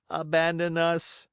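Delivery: just parrot the fox's words; echoing cat. Acted. Cat echoes flatly.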